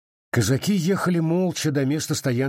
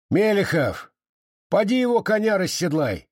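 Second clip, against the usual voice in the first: raised, higher barked command; sergeant's order; 9 semitones higher than usual. A narrator's reading. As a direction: order the young Cossack about. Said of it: "приказал урядник".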